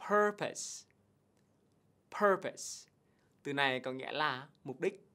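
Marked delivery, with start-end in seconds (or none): 0.1-2.9 "Purpose" said PUR-pus, high and clear; model pronunciation. Shown as a demonstration. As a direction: repeat "Purpose" with a short pus ending. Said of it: "mà đọc là". (đọc mẫu "Purpose" rõ ràng)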